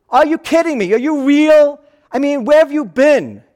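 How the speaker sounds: can't believe he hasn't heard; incredulous disbelief. Pretend. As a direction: Cleopas stunned at the stranger's ignorance. Cleopas incredulous, voiced.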